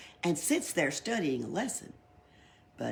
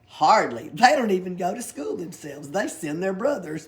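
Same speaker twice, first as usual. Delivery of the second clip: laughing; 3 semitones higher, 7 dB louder than usual. Acted. Pippi's joke, laughing.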